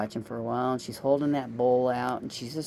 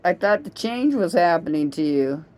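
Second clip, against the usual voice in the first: worried outburst; 4 semitones higher, 6 dB louder than usual. Retold or imitated. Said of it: "And I'm like".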